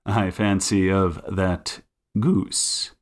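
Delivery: deduce it teasingly, piece by piece; Sherlock Holmes. Acted. Detective narrowing geese to one bird, knowing and measured.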